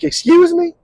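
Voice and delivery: high indignant excuse me; affronted, pitched high; offended excuse me. Retold or imitated. Offended woman answering the insult, high and indignant.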